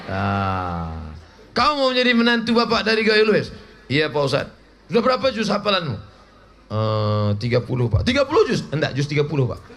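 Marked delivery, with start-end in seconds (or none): 1.5-3.5 stern examiner. Acted. Ustadz quizzing would-be son-in-law. 8.0-8.7 surprised disbelief. Acted. Ustadz surprised at thirty juz.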